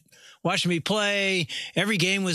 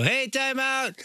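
calling out; 7 semitones higher, slower than usual. Retold or imitated. Coach calling his players over, calling out. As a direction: reenact hailing a team from the sideline.

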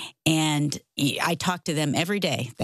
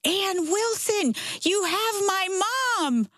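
high, slow exclaiming yell, half-acted; mock yell; slower than usual. Son-in-law yelling across the driveway, high and slow. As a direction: call her name out high and slow, amazed. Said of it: "and he yells".

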